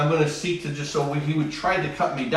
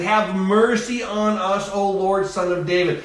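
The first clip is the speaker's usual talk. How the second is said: crying out; 4 semitones higher than usual. Acted. Blind men beg Jesus for mercy, acted crying out. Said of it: "They were crying out to Jesus".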